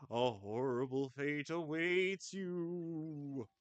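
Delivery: ghost voice. Acted. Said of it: "my ghost voice is not up to snuff".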